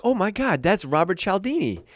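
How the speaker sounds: high, starstruck gasp; star-struck disbelief at meeting a hero. Retold or imitated. Seeing Robert Cialdini backstage, starstruck and high. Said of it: "I'm like".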